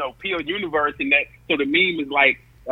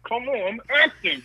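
talking through clenched teeth, high; mock actor, teeth clenched; Bokeem Woodbine through gritted teeth; 10 semitones higher, 5 dB quieter than usual. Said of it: "Bokeem Woodbine talking through his teeth".

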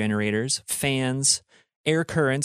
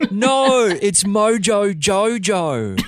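laughing exclamation; 8 semitones higher, 5 dB louder, much slower than usual. Real, not acted. Announcing a cartoon villain.

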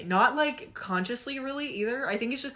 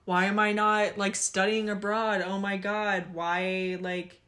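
annoyed ugh. Retold or imitated. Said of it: "the whole thing started coming back".

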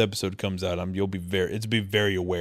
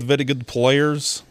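slow, higher mock-Russian voice; trash Russian accent; 5 semitones higher, 4 dB louder, slower than usual. Fan mimicking a player's English, trash Russian accent. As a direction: imitate an Eastern European athlete in bad Russian accent. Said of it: "Trash Russian".

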